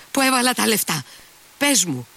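high, urgent exclamation; crying out. A narrator's reading. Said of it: "φώναξε".

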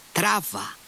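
high, sharp command to drive on; angry shout. A narrator's reading. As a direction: bark it at the driver. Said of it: "φώναξε θυμωμένα".

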